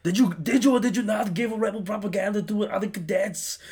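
high-pitched interrogating grandmother; grandmother impression. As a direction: grill them in a high put-on granny voice. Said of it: "That's what the grandmother sounds like".

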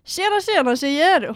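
high, sing-out hello to a group; chirpy mock greeting. Recruiter hailing some girls, chirpy and high-pitched.

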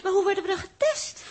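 amused, laughing query; laughing question. Acted. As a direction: giggle as you ask. Girl asks with a laugh.

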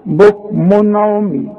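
slow "بكم عمي", clear short n before "عمي"; no ghunnah. Shown as a demonstration. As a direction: sound the n of "بكم" without humming. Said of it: "يبقى ما غنش". ("بكم عمي" بإظهار النون من غير غنة)

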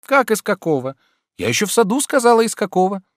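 put-on high, lively young woman voice; Ольга, звонкая девушка. A narrator's reading. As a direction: play Olga pleading playfully. Olga's voice. (звонкий голос юной Ольги)

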